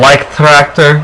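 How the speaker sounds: Leicht Tractor said lightly in a hammed-up German accent, Leicht as LYKHT; a playful amateur German accent on Leicht Tractor. Shown as a demonstration. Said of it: "that's my best accent".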